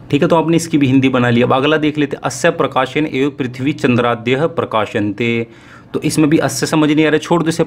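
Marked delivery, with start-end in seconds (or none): 2.2-5.5 slow, deliberate Sanskrit recitation; slow reading aloud. Shown as a demonstration. Teacher slowly reading a Sanskrit passage to students, slow and deliberate. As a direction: read each word slowly so students follow. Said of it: "मैं धीरे धीरे पढ़ूंगा इस गद्यांश को".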